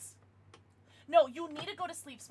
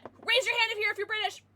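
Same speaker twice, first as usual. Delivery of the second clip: mock British accent; 8 semitones higher, 4 dB louder than usual. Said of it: "my offensive British accent".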